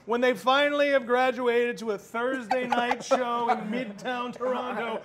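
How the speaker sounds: building to a loud high boom; scheming villain, rising to a shout; mock terrorist planner. Voicing terrorists planning a sell.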